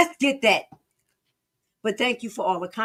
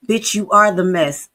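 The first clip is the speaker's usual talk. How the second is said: angry outburst; 7 dB louder than usual. Real, not acted.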